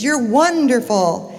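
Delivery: slow, drawn-out echoed call; echoing praise. Retold or imitated. Echo returning the father's praise, slow drawn-out call. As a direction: call it back slowly like an echo. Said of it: "And the voice says".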